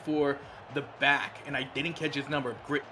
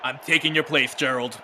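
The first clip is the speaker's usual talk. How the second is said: mock menace, louder, with a laugh; evil sounding; 6 dB louder than usual. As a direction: play the playful villain. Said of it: "that was evil sounding".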